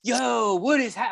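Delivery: high-pitched, thrilled disbelief; shocked, excited. Retold or imitated. Fan reliving the draft trade, shocked and excited. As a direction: re-enact a stunned fan's outburst. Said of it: "shocked, like, excited".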